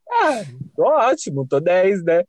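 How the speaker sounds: imitating a drawn-out "I'm fine" act; feigned nonchalance. Crier covering up to a concerned friend, feigned nonchalance. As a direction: pretend nothing at all has happened. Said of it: "como se nada tivesse acontecido".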